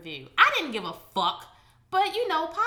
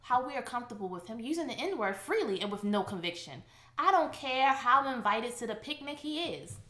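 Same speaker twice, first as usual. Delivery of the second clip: mock reading of the review. Shown as a demonstration. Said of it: "That's how I'm saying it".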